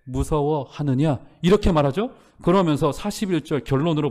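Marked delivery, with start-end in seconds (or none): 0.0-1.2 slow rebuke. Acted. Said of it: "이에 제자들에게 이르시되".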